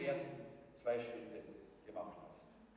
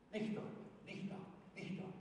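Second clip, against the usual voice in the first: hushed; 11 dB quieter than usual. Acted. Preacher quotes pastor, dropping voice.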